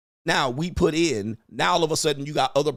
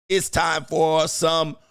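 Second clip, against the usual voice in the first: drawn-out hype shout, higher and louder; announcer shout; 6 semitones higher, 5 dB louder, much slower than usual. Acted. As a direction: call it out like a ring announcer, slow and loud. Stream host calling out food segment.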